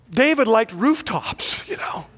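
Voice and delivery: whispered aside, slow and knowing; sly whisper. Acted. To graduates about King David, a knowing whisper. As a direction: lean in and whisper the naughty hint.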